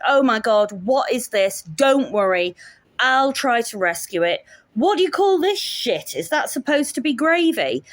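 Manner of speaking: lightly mocked pushy guest; drunk Scots girl. Drunk guest scorning the cook's gravy, brash mimicry. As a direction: imitate her taking over, pitch climbing at the end. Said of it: "who I shall just call Drunk Scots Girl".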